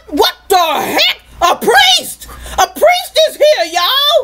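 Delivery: high-pitched incredulous questions; acted astonishment. Preacher plays travellers finding a priest, acted astonishment.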